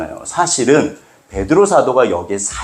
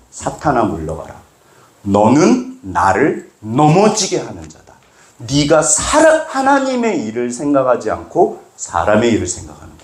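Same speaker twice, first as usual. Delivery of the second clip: stern rebuke. Retold or imitated. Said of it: "예수님께서 뭐라고 그러셨다".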